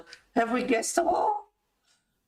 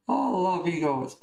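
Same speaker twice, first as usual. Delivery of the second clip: laughing. Real, not acted. Giggling at chat jokes.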